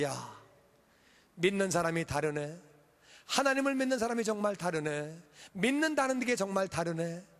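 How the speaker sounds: low, acted marvelling; hushed amazement. Enemies watching God honour the believer, hushed amazement. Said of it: "원수들이 바라볼 때에".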